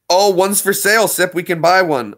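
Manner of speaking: sudden delighted rise; thrilled at finding one; excited. Real, not acted. Surprised discovery on phone.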